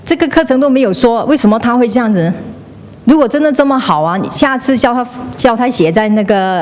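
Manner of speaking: 不满地抱怨，语速快; rude complaint. Retold or imitated. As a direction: imitate a huffy participant griping at the organiser. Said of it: "his action is".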